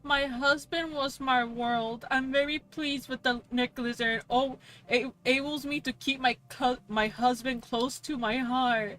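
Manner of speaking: mock sentimental review reading. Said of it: "I just saw one of the review is".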